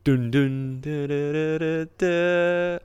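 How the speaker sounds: sung dun dun sting; hummed Law and Order sting. Retold or imitated. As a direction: hum the dramatic jingle. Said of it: "I felt like it could have had".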